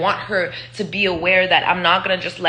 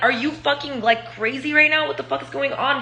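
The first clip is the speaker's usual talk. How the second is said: higher-pitched, incredulous questioning; retold disbelief; 6 semitones higher than usual. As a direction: re-enact challenging someone out of control. Retold confrontation with violent boyfriend.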